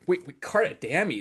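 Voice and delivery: mild re-enacted surprise; surprised double take. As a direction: replay catching a name you didn't expect. Retelling his surprised double take.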